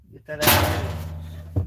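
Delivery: slow breathy whisper of "Get that out of here.". Pretend. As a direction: hush "Get that out of here." slowly under the breath. Repeats line two ways.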